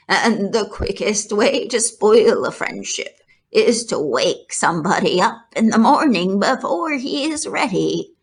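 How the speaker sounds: lightly voiced grumpy elder; lecturing old sheep. Oldest sheep lecturing Wilbur, lightly voiced. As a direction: reprove him with dry wisdom.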